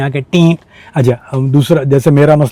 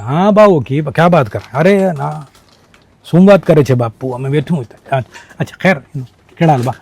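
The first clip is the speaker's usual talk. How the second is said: switching through Indian regional accents, louder and higher; 3 semitones higher, 4 dB louder than usual. Shown as a demonstration. Showing a Pakistani audience how Indian regional accents sound. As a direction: rattle off Indian dialect greetings to show how accent gives you away. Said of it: "accent।".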